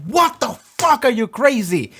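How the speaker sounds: high, loud, incredulous outburst; hammed-up shock at a crazy idea; mock outrage. Everyone scoffing at Jace's idea, in high, loud mock outrage.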